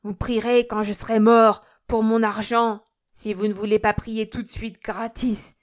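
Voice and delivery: loud, indignant refusal; angry shouting. A narrator's reading. Old miser haggles over prayers, shouting angrily. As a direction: shout back, refusing to pay. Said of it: "cria Nikita".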